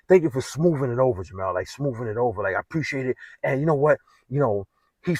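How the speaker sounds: a hint of an Italian officer's voice. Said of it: "he's talking in that Italian voice".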